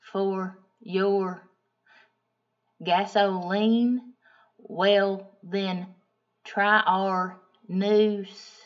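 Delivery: slow, drawn-out salesman's ad read, every word stretched; mock commercial pitch. Mechanic upselling synthetic oil to her, cheesy slow ad voice.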